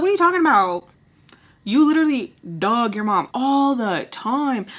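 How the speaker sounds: loud incredulous retort; heated comeback. Retold or imitated.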